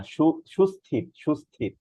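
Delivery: সুস্থির with a breathy, aspirated থ; correct aspirated th. Shown as a demonstration. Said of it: "সুস্থির না".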